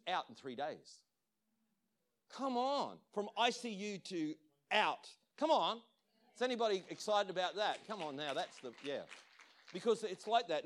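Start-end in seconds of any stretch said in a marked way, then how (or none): 2.3-8.3 higher, louder, punchy urging; excited rallying. Real, not acted. Preacher urging congregation to celebrate healing, excited. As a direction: rouse the crowd with emphatic bursts.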